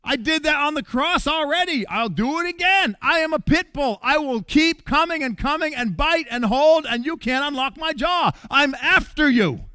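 the father tells his lost son he is coming for him, fervent; father's fervent pursuit. Acted. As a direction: plead with passionate insistence. Voicing father's loving pursuit.

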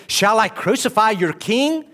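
high, loud incredulous question rising at the end; Pilate asking. Acted. Pilate challenging the crowd, loud incredulous question. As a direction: ask it in disbelief. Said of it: "Pilate said to them".

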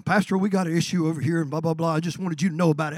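quick, dismissive mimicry; rattled-off complaint. Church member dumping a complaint on the pastor, rattled off. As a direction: rattle it off fast as imitated griping.

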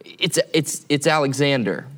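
nervous, stammering reply; imitated trembling. Young soldier answers the demanding commander, imitated trembling. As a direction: stumble on the first words, mildly mock-frightened. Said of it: "even trembling more".

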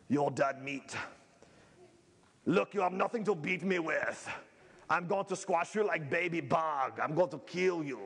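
lightly voiced giant's taunt, understated; a hint of a boastful giant; Goliath taunting. Pastor voicing Goliath threatening David, mild mock taunt. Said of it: "That's probably how he sounded".

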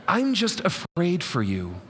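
lightly voiced fretting mom; worried mom, full voice. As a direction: say it again openly, pleading. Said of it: "You hear Mom coming out of this?".

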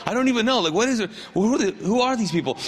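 puzzled, lightly acted questioning; bewildered wondering. Woman in the crowd unsure who she's hugging, wondering. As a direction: wonder aloud, as if thrown. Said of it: "like, wondering".

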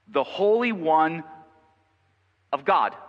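loud, slow cry losing its height; slow demonic outcry coming down; demon's shout, easing off. A narrator's reading. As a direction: call it out in separate, stretched phrases. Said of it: "cried out, shouting".

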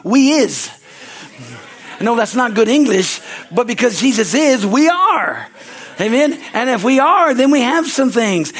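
fired-up pulpit preaching; preaching at full force. Acted. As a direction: preach it out to the congregation, building up. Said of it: "I'm probably gonna preach today".

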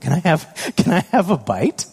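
hint of a high, eager child; lightly voiced begging toddler; son asking again. Son pleading again with daddy, lightly childlike. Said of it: "It's like".

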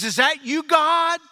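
rising high, surprised question; high and hopeful, pitch climbing on God; startled man. Retold or imitated. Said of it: "He says".

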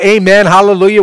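high, very loud mock church shout; hammed-up yell. Preacher imagining the son's eager agreement, yelled high and hammed-up. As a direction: yell it out like an over-keen worshipper. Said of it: "maybe he yelled out".

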